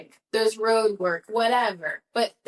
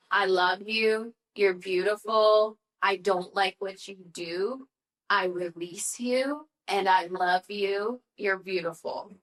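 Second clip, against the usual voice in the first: tender; slower than usual. Retold or imitated. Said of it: "says this really beautiful thing".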